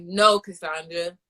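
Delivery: slow, firm no to herself; a stern word with herself; self-scolding. Retold or imitated. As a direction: tell yourself off, slowly. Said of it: "that's how I'm like".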